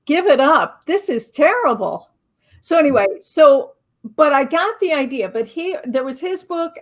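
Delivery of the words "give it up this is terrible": louder, teasing scold at the author; mock exasperated outburst. Telling the author Ed to quit, a louder mock scold. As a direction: blurt it out like giving up on the book. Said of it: "I was like".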